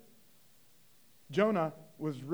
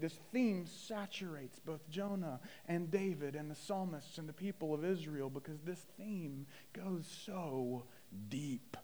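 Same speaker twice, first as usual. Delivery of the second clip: hushed, softer sermon tone; reflective preaching; 4 semitones lower, 9 dB quieter than usual. Real, not acted. Preacher reflecting with congregation on scripture's theme, hushed. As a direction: bring the congregation in quietly.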